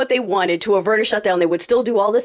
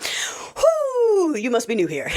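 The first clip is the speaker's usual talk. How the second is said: amused whisper; 10 semitones higher, 3 dB quieter, much slower than usual. Real, not acted.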